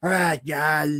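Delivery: put-on gruff, campy voice. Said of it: "his campy, over-the-top performance".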